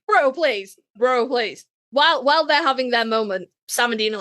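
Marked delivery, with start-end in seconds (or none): 0.1-0.8 scoffing bro. Pretend. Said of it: "Like, fuck off".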